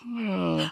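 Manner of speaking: acted-out high-pitched yawn; mock yawn; imitated yawn. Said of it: "Please don't yawn this time".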